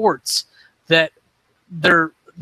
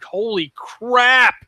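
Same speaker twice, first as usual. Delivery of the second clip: amazed; 5 semitones higher, much slower than usual. Real, not acted. Reacting to iZombie finale.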